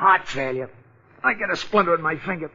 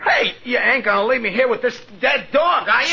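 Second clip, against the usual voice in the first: high, whimpering plea not to be left; scared whine; 6 semitones higher than usual. Acted. Porky begs Jeff not to leave him with the dead dog, high scared whimper. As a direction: beg him to stay, near tears.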